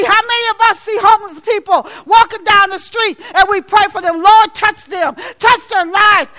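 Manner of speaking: rising, fervent sermon shout; fiery church preaching; preaching at full force. Acted. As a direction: preach it to the back pews.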